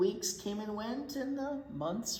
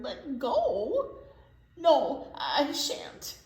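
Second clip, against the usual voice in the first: loud, higher panicked no; shouting refusal; 5 semitones higher, 7 dB louder, much slower than usual. Acted. Kevin shouting down to the crowd, refusing. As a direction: shout it back, refusing to move. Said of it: "shouted Kevin".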